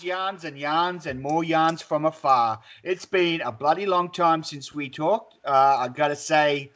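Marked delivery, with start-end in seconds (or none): 0.0-2.6 mock show intro. Podcast intro announcement.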